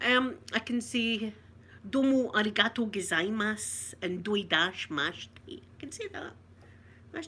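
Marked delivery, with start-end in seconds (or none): 1.9-5.3 Japanese phrases. Shown as a demonstration. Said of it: "What can you say?".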